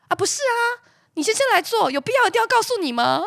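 high, quick, chirpy phone voice; chirpy clinic counselor. Retold or imitated. Clinic counselor on the phone to the wife, chirpy and high. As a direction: play the breezy counselor reading out results. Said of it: "那个生殖中心还说".

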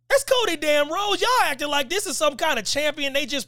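mock fan rant. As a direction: play the outraged fan whining about Cody. Fan outrage voiced as a quote.

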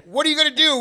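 high, loud shouted prompt; rallying dad. Retold or imitated. Dad to kids before the game, shouted rallying call. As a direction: imitate dad whipping up the kids. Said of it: "And he'd go".

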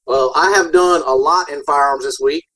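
thin, boxy tinny sound; tin can voice. Real, not acted. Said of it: "sounds like he's in a freaking tin can".

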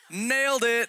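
high, loud cry of triumph; triumphant. Retold or imitated. To the Lord, crowing over winning the argument, high loud triumph. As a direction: crow it like you just won. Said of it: "And I was like".

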